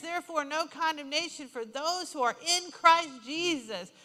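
emphatic scripture, building to a loud peak; preached declaration. Acted. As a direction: proclaim it, stretching the key words.

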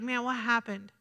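low, soft, let-down question; quiet bewilderment. Acted. Preacher voicing someone whose trusted friend is gone, quietly bewildered. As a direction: ask it low and subdued, as if abandoned. Acting out feeling abandoned and let down.

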